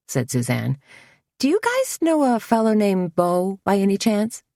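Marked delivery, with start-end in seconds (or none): 1.4-4.4 bold bluff. A narrator's reading. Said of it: "She sounded far bolder than she felt".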